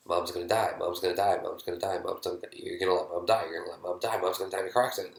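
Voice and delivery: rapid, relentless looping repetition; acted intrusive thought, piling up quickly; insistent inner bark. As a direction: run the phrases together like a nagging thought. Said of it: "your head is gonna bark louder".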